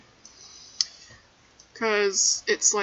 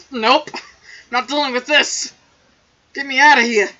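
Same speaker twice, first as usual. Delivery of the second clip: voicing the cat; 4 semitones higher, 10 dB louder than usual. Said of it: "He's like".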